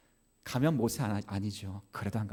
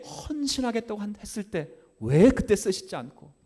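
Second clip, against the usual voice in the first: high, loud pleading protest in preaching; impassioned complaint to God; 9 semitones higher, 10 dB louder than usual. Acted. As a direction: cry out the grievance to God. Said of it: "하나님".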